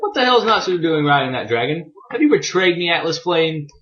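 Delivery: a hammed-up panicked accusation; freaked-out disbelief. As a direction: play it as a villain losing it at the betrayal. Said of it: "Rogues is tripping the fuck out".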